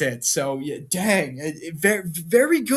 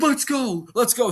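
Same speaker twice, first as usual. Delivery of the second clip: tag; 7 semitones higher than usual. Retold or imitated. Wrestler eager to fight, acted.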